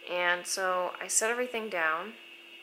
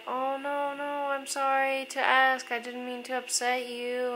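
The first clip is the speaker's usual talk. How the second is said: higher, imitated kindly apology; apologetic concern; 6 semitones higher than usual. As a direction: voice a host gently backtracking. Host apologizing to crying guest.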